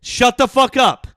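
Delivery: high, loud furious yelling; angry yelling. Real, not acted. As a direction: yell it to shut him up. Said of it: "from all that yelling".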